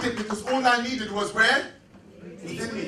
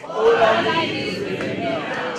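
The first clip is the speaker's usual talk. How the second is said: said like you mean it; slower than usual. Shown as a demonstration. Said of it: "Or say it like you mean it".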